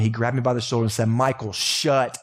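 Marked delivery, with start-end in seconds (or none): 1.1-2.2 dad's firm rebuke. Retold or imitated. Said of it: "the only time my dad ever yelled".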